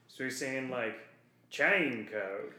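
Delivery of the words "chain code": put-on "Chain code." in a light clone-trooper accent, the ch set apart from gene; imitating the clone accent. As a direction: mimic the accent of Bradley Baker's voice work on "Chain code.". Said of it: "Bradley Baker's doing an accent for all these voices".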